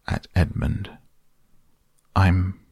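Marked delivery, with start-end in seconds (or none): 2.2-2.6 halting, stumbling over I'm; a boy fumbling for his own name; awkward, hesitant stammer. Acted. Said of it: "said Edmund rather awkwardly".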